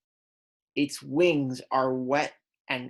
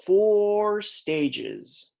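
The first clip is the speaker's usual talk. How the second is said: announcing; 6 semitones higher than usual. Acted. Announcing topic to kids.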